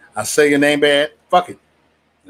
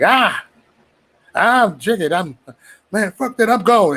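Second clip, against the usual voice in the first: imitated exasperated friend; 7 semitones higher, slower than usual.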